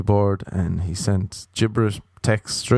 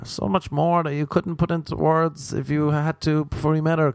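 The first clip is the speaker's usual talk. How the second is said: mock sentimental gushing; 4 semitones higher than usual. Mock sentimental marriage speech.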